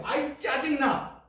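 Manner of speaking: drawn-out fed-up complaint; irritated outburst. Retold or imitated. Believer complaining in everyday talk, slow and fed up. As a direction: let the annoyance out, slowly. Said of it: "우리가 얘기할 때".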